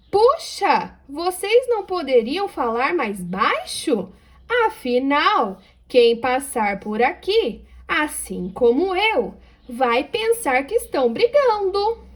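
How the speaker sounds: high exclaimed "Puxa" then slow, rising plea; expressive reading. Shown as a demonstration. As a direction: read the whole line with feeling. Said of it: "olha a fala dela". (leitura expressiva da fala)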